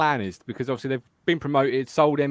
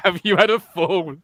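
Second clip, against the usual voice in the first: slow, higher mock-posh accent; Ian's posh accent; 4 semitones higher, 4 dB louder than usual. Repeating Ian's funny comment, imitated posh accent. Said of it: "how come Ian talks really posh".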